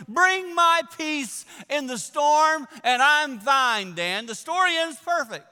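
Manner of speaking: loud, high, slow scoff; mock sarcasm. Listener mocking the preacher, loud slow sarcasm. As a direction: roll your eyes through every word. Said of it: "I would say right now".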